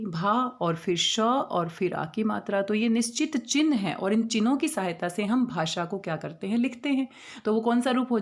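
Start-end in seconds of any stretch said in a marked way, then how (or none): 0.1-2.6 put-on teacher spelling out each letter slowly for children; slow, letter by letter, as if writing on the board. Shown as a demonstration. Teacher to pupils, spelling the word slowly letter by letter. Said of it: "उस पे आ की मात्रा लगेगी".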